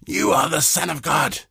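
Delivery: high, drawn-out demon shout; slow, high-pitched outcry. A narrator's reading.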